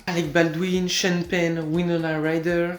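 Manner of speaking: names said in an American accent. Real, not acted. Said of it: "Pourquoi je prends un accent américain".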